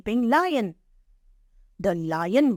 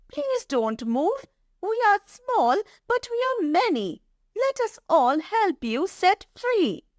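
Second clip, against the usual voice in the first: very high, earnest mouse voice; rally the helpers in a tiny high voice; determined little mouse; 10 semitones higher than usual. Acted. Mouse asking the netted lion to hold still, determined. Story mouse leads the rescue.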